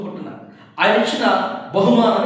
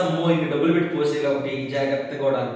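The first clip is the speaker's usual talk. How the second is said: 1 fretful; 4 semitones lower, faster than usual. Retold or imitated. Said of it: "మనం కొంతమంది ఎలా వాడతారు తెలుసా?".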